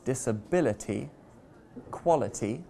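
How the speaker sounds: "disability" and "quality", stressed on BIL and QUAL; stress before the suffix. Shown as a demonstration. Teacher demonstrating the rule, "disability" and "quality" stressed before the ending. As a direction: put the weight just before "ity" in "disability" and "quality". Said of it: "stress the syllable before the ending".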